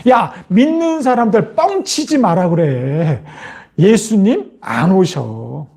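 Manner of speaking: lightly voiced dismissive jeer, drawn out; mild mock disbelief with stretched endings; mocking scoffer. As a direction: scoff slowly at the believers. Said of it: "조롱하는 자들이 하는 말입니다".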